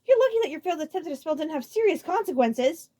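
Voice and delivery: high, loud scolding; furious told-you-so shout; angry. A narrator's reading. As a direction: tell him off at full volume. Iggy scolding Abrak.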